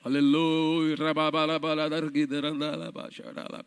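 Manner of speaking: rapid mock glossolalia; speaking in tongues. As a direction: babble in tongues like a fervent prayer. Pregador ora em línguas. (falando em línguas de brincadeira)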